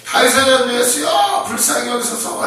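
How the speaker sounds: high, loud desperate plea. Retold or imitated. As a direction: shout it out to Jesus passing by. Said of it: "그게 더 크게 부르짖어요".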